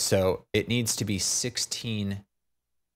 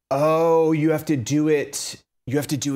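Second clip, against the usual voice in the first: loud, high burst of discovery; sudden eureka; 7 semitones higher, 6 dB louder than usual. Real, not acted. Solving a Blender problem, suddenly exclaims in excited realization. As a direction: blurt it out as the answer clicks.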